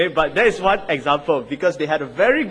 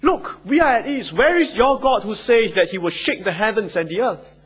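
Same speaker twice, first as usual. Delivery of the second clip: raised, taunting challenge; mocking; 4 semitones higher, 4 dB louder than usual. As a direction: jeer at the people, pitched up. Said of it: "continue in their mocking of the people".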